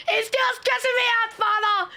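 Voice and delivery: high, whiny mock plea to the priest; mock whiny complaint. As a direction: replay the clip line as a high-pitched whine. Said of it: "That felt like I was watching The Office".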